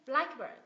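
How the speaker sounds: "Blackbird" as BLACK-bird, BLACK punched; teacher's model of "blackbird", weight on BLACK; stress on first syllable. Shown as a demonstration. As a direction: hit BLACK hard, let "bird" fall. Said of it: "Mình nhấn vào âm tiết thứ nhất".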